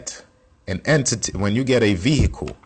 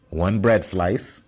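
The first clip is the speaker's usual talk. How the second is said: slow and deliberate; much slower than usual. Shown as a demonstration. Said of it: "Remember we was talking about the bread?".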